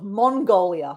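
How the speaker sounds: "Mongolia" with a rounded MON, slowly; corrected pronunciation. Shown as a demonstration. Host correcting her own slip, careful MON in "Mongolia". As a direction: say "Mongolia" starting like "mon", not "man". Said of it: "not Mongolia".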